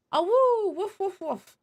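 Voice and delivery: light mock woofs; playful barking. Streamer reading the dog's lines as playful woofs. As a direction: bark like a friendly dog. Voicing dog barks.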